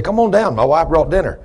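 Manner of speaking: calling up. Retold or imitated. Contractor calling up to man on lift.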